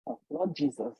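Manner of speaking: low, hushed muttered prayer with hums; typical African mother. Retold or imitated. Mother watching her daughter heal a doctor, muttering in prayer. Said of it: "typical African woman, was like".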